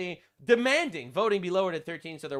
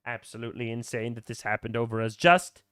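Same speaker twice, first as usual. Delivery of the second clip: mocking victim voice; 5 semitones higher than usual. Mocking the influencer's assault story, higher whiny voice. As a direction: read her post like an overdone martyr. Reading her tweet mockingly.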